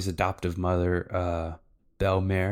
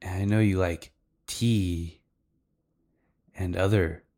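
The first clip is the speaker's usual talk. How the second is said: coy retold come-on with teasing pauses; playfully suggestive; mock seductive. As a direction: imitate a flirty invitation, lingering between phrases. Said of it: "Kinda, like, really seductive".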